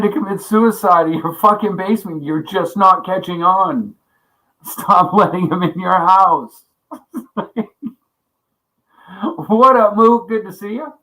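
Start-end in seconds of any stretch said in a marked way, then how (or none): 4.6-7.4 laughing. Real, not acted. Laughing exasperation.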